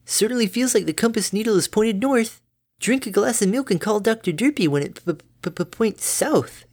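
high, bright-natured mother pony; doting mom, high and chirpy; cheery mother voice. Acted.

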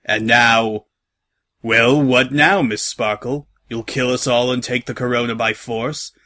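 measured villain captain, lightly voiced; menacing Captain Salt. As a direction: threaten with cool, deliberate formality.

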